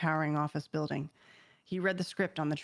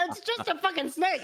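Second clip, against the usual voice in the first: laughing; 12 semitones higher than usual. Retold or imitated. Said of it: "I was like".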